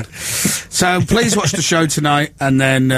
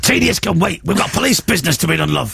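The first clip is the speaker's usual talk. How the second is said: lightly gruff cop bark; host answering in a gruff Gene voice; 4 semitones higher than usual. Pretend. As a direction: play the tough detective, half-joking. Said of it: "shouting in a gruff voice".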